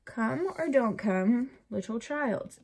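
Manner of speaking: playfully frustrated plea, slow and stressed; mock exasperation. Mother to her unborn baby, mock exasperated. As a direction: draw it out like a fed-up demand. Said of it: "that is so frustrating".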